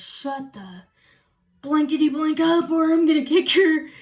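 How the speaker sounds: loud, censored retold outburst; angry threat. Mother barging in on sleeping daughters, angry threat. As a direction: burst out like someone barging in mad.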